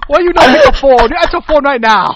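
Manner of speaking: put-on high, shouted Asian accent; hammed-up angry demand in an Asian accent; mock Asian accent. Ordering Jamie to answer now, loud mock Asian accent. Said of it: "it's Asian".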